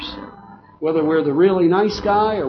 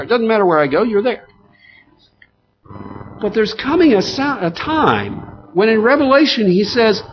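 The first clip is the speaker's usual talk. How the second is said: raised pitch, forceful sermon delivery; emphatic preaching; 8 semitones higher, 4 dB louder than usual. Real, not acted. Preacher telling the congregation God will live with man, emphatic preaching. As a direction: drive each phrase home to the congregation.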